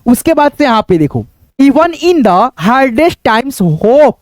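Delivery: quick reading aloud of the English sentence; reading aloud fast. Shown as a demonstration. Teacher reading the sentence aloud at speed to demonstrate. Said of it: "जैसे मैं पढ़ के बताता हूँ".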